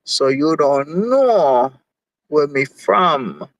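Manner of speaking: slow, light Jamaican accent; playful slow Jamaican accent; slight Jamaican accent. Shown as a demonstration. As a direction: slip into a gentle Jamaican accent. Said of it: "With a slight Jamaican accent".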